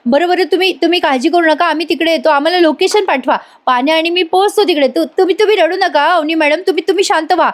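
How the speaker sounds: high-pitched, flustered reassurance; retold panic, urging calm while agitated himself; hyper. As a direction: act out a worked-up man, pitch held high. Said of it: "राजा आता खूप hyper होतो".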